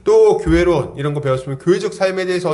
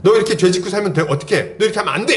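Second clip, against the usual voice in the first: higher-pitched mock telling-off, insistent; acted scolding; 6 semitones higher, faster than usual. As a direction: play a church senior scolding a younger member. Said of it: "죄에 대해서 막 혼낼 때가 있어요". (후배를 혼내는 선배 흉내로 다그치듯)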